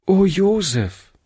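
put-on a little girl calling out gently; girl's sympathetic call. A narrator's reading. Girl greeting the injured boy, with pity. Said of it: "sagte sie".

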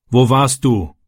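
mildly irritated father, understated; a touch of annoyance in the question. A narrator's reading. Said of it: "fragte sein Vater gereizt".

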